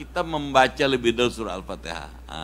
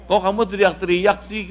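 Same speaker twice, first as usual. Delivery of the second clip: mild rebuke; 5 semitones higher, 4 dB louder than usual. Acted. Abu Musa rebuking shouting Bedouin.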